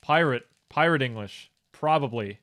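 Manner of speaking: "Pirate" and "Probably" with full hard R's; strong American R. Shown as a demonstration. Streamer demonstrating words for accent training, strong American R. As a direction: hit each R in "Pirate" and "Probably". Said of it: "You have to probably".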